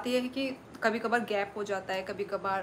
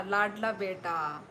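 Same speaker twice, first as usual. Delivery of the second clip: amused; 2 semitones lower, slower than usual. Shown as a demonstration. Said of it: "अच्छा".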